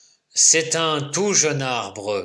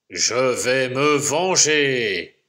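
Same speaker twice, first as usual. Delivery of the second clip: growled threat; slower than usual. Acted. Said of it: "grogne et gronde le bûcheron".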